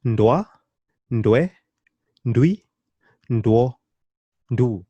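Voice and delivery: short, unsplit syllables from "Ndwa" to "ndu"; each one said quickly as one syllable, a pause after each. Shown as a demonstration. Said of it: "say that a bit quicker".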